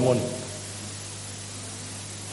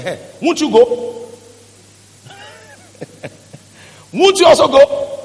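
slow, then higher and louder with a laugh; mocking challenge; 7 semitones higher, 5 dB louder than usual. Jesus asks remaining disciples to go, laughing and louder. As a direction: dare them to leave too, laughing.

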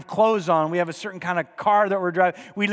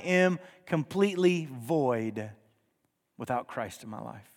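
hushed confession; 7 semitones lower, 7 dB quieter, slower than usual. Real, not acted. Preacher drops to near hush.

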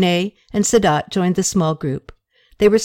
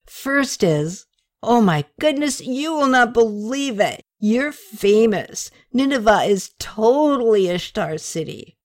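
put-on higher, gushing drunk friend; tipsy young man; 4 semitones higher than usual. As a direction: babble the news, too excited. Drunk Rene voiced by reader.

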